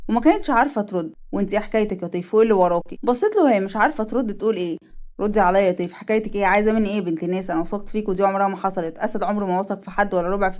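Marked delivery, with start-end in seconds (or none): 1.3-9.0 slightly lowered, serious man's voice; a hint of a hurt, probing male character; lightly voiced questioning man. Asad presses Teif for truth.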